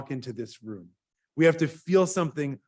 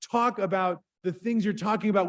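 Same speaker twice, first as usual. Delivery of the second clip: angry student; 5 semitones higher than usual. Retold or imitated. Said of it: "young gentleman who was so angry says".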